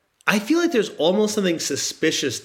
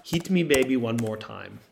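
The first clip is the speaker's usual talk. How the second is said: put-on Swedish accent. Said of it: "that's my Swedish accent".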